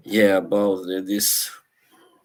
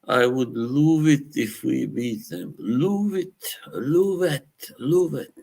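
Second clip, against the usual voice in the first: mock rant; 6 semitones higher than usual. Quoting a famous manager rant.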